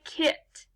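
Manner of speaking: "kit" with a short ih vowel; quick ih sound. Shown as a demonstration. Teacher has pupils say it, short-vowel "kit". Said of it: "so the syllable sounds like this".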